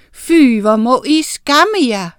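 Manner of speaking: højt, langsomt skænderi; skæld de små ud. A narrator's reading. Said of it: "skændte Miranda". (bebrejdende, eftertrykkelig irettesættelse)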